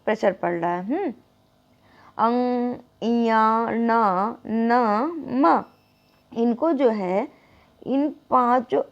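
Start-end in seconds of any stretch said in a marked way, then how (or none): 2.2-5.6 अंगा, इया, ना through the nose; nasal drill. Shown as a demonstration. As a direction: let each syllable ring in the nose. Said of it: "नाक से भी आवाज़ आ रही हो".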